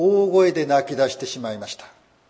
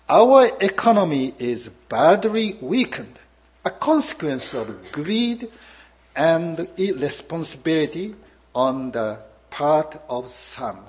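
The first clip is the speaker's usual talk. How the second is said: quoting Obama; much slower than usual. Retold or imitated. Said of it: "オバマさんは…言葉を使いましたね".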